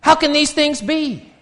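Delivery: high-pitched baffled outcry, dropping at the end; incredulous question. Retold or imitated. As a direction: act out a bewildered questioner, voice way up. Acting out Nicodemus's baffled question.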